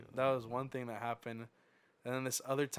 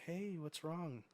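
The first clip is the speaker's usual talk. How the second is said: nice manager; 5 semitones higher, 5 dB quieter, slower than usual. Retold or imitated. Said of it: "She was so nice".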